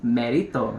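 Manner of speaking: "Merito" repeated as a Spanish name, falling at the end; Spanish-style name pronunciation. Shown as a demonstration. Host repeating the brand for viewers, careful Spanish-style "Merito". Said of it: "like that".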